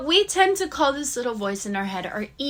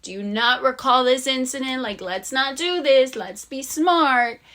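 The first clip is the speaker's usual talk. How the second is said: mocking inner voice; 6 dB louder than usual. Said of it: "she was like".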